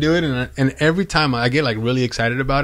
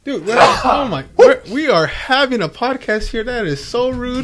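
high-pitched, joking indignation; play-scold a friend, much higher; mock outrage; 11 semitones higher, 3 dB louder than usual. Mock scolding after co-host sneezes.

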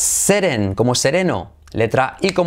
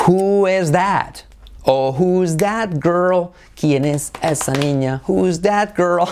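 questions spoken slowly and a little higher; drawn out with careful stress on "that"; slow model question; 4 semitones higher than usual. Shown as a demonstration. Teacher modelling the questions slowly for students.

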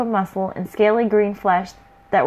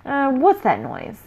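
rough troll voice; 4 semitones higher, slower than usual. Acted. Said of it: "a rough voice speak out".

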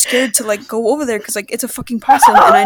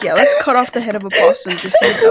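mocking uncle voice; 5 semitones higher, faster than usual.

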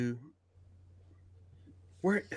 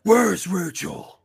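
loud, slow, drawn-out quote; Batman; 4 semitones higher, 5 dB louder, much slower than usual. Acted. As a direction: stretch the words out, louder and higher. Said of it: "My go-to is".

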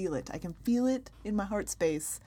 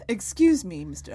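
disappointed mom; 4 dB louder than usual. Acted. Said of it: "I can do the disappointed mom voice".

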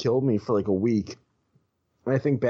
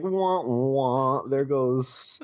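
mock sad wah wah; 3 semitones higher, much slower than usual. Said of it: "So I was like".

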